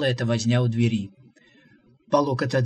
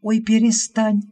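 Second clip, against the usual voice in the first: higher, louder, slow scoffing "Ой, перестань"; dismissive wave-off; 8 semitones higher, 6 dB louder than usual. A narrator's reading. Prophet waving off the visitor's claim, scoffing. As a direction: brush him off with scorn. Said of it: "отмахнулся пророк".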